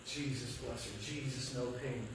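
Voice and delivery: low, soft retold plea; murmured urgent prayer. Parent praying over a hurt baby, murmured plea. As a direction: pray quietly over and over.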